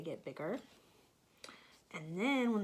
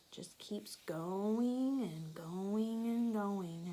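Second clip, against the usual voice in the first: whispering; slower than usual. Real, not acted. Explaining to child.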